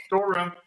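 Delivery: STOREROOM said as two distinct parts, store and room; clarifying pronunciation. Shown as a demonstration. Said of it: "I heard storm too".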